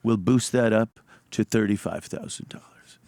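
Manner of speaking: lightly voiced GM calling them boys; a light take on the station manager; Bruce Mittman impression. Imitating the GM promising a raise, lightly voiced. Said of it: "Great impression".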